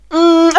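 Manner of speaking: a loaded, sceptical hum; doubtful hum. Real, not acted. Reviewer hesitating to judge Adam Driver's accent, doubtful hum.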